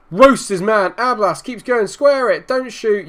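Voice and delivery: high, loud urging of a player on the screen; excited urging. Real, not acted. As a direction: gamer urging his winger on a counter-attack, excited. Urging his player on a counter.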